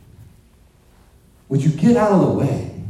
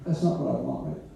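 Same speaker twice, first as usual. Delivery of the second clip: finicky cat; 8 dB quieter, faster than usual. Retold or imitated. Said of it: "the cat is like".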